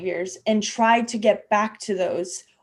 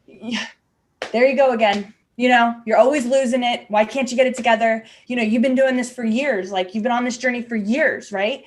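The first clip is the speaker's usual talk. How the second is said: self-critical scolding; faster than usual. Retold or imitated. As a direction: scold yourself like a harsh critic. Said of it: "what I have done in the past is I'll go".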